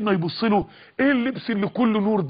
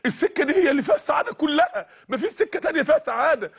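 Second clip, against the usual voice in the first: raised, higher pushy voice insisting; inner voice shouting; 6 semitones higher than usual. Retold or imitated. The voice in the youth's ear, a raised, higher pushy shout. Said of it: "الصوت بيصرخ في وداني الاتنين".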